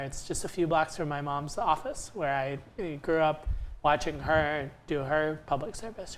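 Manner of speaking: ordinary delivery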